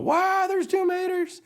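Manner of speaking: very high, slow astonished voice; amazed. Acted. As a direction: gape as you say it. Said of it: "McQueen's all".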